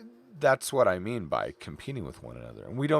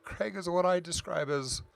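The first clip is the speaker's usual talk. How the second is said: real, held-back emotion with long pauses; heartfelt tribute, halting and choked up; getting emotional; 2 semitones higher, 3 dB quieter than usual. Real, not acted. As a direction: speak softly, pausing to hold yourself together. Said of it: "sorry, I'm gonna get emotional".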